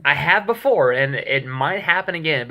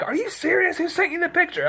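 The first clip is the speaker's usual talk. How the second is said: frantic, much higher pitched disbelief; mock freak-out, pitch soaring; retold panic. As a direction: play the panicked friend, voice shooting up high. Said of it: "he is flipping out".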